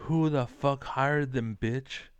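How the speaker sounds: shouting down the complainers; angry rant. Real, not acted. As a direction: hammer each word in outrage.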